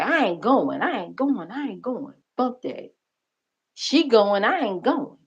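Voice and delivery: imitating an upset woman's insistent protest, pitch swinging on each refusal; mock upset, repeated firm refusals. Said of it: "she was upset".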